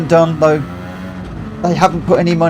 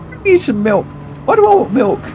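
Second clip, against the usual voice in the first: mock indignation; 9 semitones higher than usual. Real, not acted. Mock outrage at viewer request.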